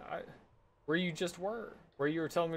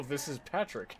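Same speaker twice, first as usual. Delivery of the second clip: softer cartoon starfish voice; Patrick; 3 semitones lower, 7 dB quieter than usual. Shown as a demonstration. Player shows off his sidekick voice, light cartoon impression. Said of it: "Here's my Patrick voice".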